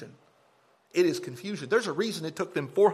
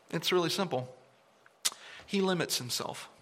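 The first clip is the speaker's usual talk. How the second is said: smug; 5 dB quieter than usual. Retold or imitated. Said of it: "he said it so smugly".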